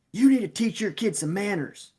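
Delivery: high, loud mock scolding; retold angry scolding. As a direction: imitate an indignant dad telling off a coach. Retold dad scolding coach.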